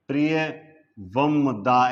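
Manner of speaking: प्रिय वम दा in separate pieces, m closing वम; split pronunciation. Shown as a demonstration. Teacher showing the form that would be wrong, split pronunciation. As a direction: break प्रिय वम दा apart, pausing after प्रिय. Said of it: "ऐसे होना चाहिए था".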